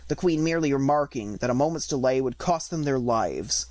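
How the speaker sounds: whispered aside; whispered narration. Acted. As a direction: breathe the line in a whisper. Narration suddenly unvoiced.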